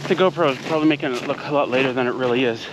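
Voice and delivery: talking while out of breath; winded after a hill climb. Real, not acted. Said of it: "sorry, I'm out of breath".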